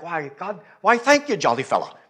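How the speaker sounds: hammed-up actor greeting a fan, jumping high; out-of-role actor. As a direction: put on a jovial off-stage actor's voice, then drop at the end. Imitates actor met out of role.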